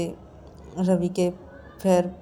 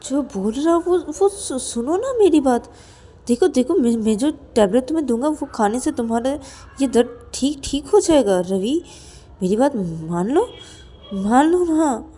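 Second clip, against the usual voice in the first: higher, swooping wheedle; pleading coaxing; 5 semitones higher, 4 dB louder than usual. Acted. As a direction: coax a reluctant friend to listen. Rahul coaxes friend to take tablet.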